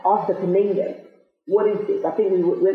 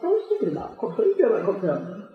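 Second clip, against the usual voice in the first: amused puzzlement; much faster than usual. Retold or imitated. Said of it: "I said".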